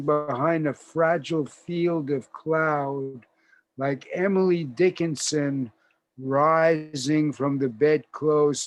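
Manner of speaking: measured, emphatic poetry reading; poem recitation. Acted. Introducer quotes an elegy to the audience, measured recitation. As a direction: read the verse out with weight on the images.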